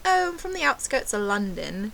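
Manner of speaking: put-on London-bound British accent. Fake Brit answering the waiter's question, mock British accent. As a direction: imitate yourself bluffing in British. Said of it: "ordered my drink in a British accent".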